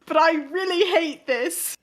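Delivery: put-on putting on a self-conscious British accent. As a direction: attempt British English, reluctantly. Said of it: "I will talk in a British accent".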